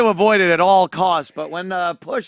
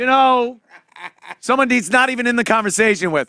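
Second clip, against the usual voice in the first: higher, fast, butting in like a barroom know-it-all; lightly mocking a loudmouth at the bar; bar know-it-all Jimmy; 5 semitones higher, faster than usual. Imitating Jimmy horning in at the bar, higher and fast. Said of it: "and he's just like".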